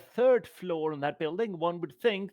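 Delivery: pompous, loud "one would" opening; mock-formal pomp. Lestard lecturing the stranger about the time, pompous. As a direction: play the gentleman, grandly.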